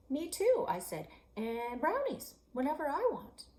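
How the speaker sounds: one-up him eagerly; eager brag. Acted. Girl boasting back at Alex, high and eager.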